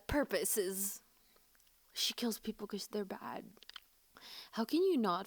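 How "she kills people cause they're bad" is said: whispering. Real, not acted. Swooning confession.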